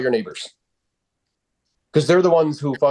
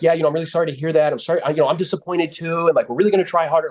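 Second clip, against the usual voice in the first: groveling apology; 4 semitones higher, faster than usual. Shown as a demonstration. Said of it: "Versus like".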